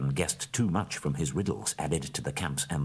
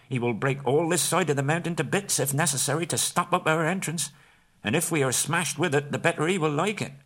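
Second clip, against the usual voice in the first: much higher, anxious hobbit voice; worried Bilbo; 7 semitones higher than usual. A narrator's reading. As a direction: fret over his mistake. Bilbo afraid.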